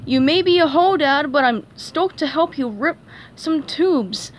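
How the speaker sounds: lightly voiced surfer dude; surfer talk. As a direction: lay on the surfer slang. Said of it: "That was surfer talk".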